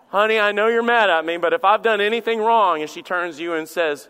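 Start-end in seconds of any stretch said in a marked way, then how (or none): 0.1-2.8 loud, hammed-up plea to a spouse; mock apology at raised volume; acted apology. Husband to an angry wife, loud mock apology. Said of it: "Try that with your spouse".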